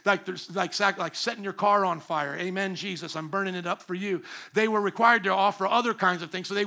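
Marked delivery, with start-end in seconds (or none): 2.4-4.2 softer, lower hushed mock devotion; a hint of a pious offering prayer said half under breath. Mock prayer burning a car.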